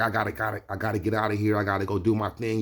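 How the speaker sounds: rushed, stumbling repeat, lightly hyped; talking fast. Retold or imitated. Hyped New Yorker excusing himself from the bookstore, talking fast. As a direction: rattle it off on the way out. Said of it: "so he was talking fast".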